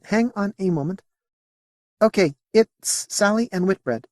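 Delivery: high alien voice lifting up; voice rising. Acted. Alien Modi announcing Sally's arrival, voice rising. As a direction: let the voice climb. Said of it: "Her voice rose".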